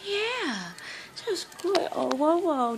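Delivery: usual speaking voice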